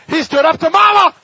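high, loud delighted cry; preacher delighting that Jesus defied his mother; excited exclaim. Real, not acted. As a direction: marvel out loud at it.

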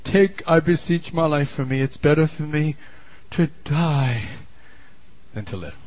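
milk the pity, let it die out; self-pitying whine. Shown as a demonstration. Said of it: "most classic picture of self-pity".

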